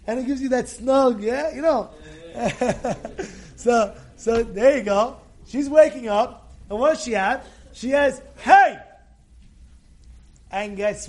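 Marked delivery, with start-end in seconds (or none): 2.0-3.5 short real chuckle. Real, not acted. Rabbi finishing a pillow joke, chuckling. 8.4-8.8 loud, higher "hey"; startled cry. Acted. Wealthy lady waking up, startled shout.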